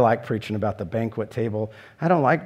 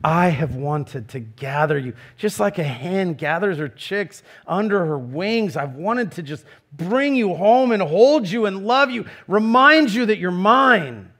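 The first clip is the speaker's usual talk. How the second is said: tender plea; 5 semitones higher, 3 dB louder than usual. Retold or imitated. Jesus pleading tenderly with Jerusalem, gentle and yearning. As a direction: hold them close with your voice. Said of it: "That Jesus says".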